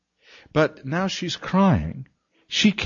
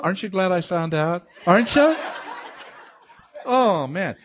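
ordinary talk

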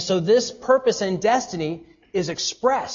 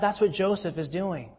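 ordinary talk

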